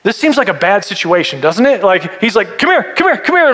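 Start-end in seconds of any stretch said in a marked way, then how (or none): 2.6-3.5 high-pitched, comic coaxing; mock-menacing summons, pitched way up; playful beckoning angel. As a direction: beckon repeatedly in a squeaky put-on voice. Acts the angel chasing him with coal.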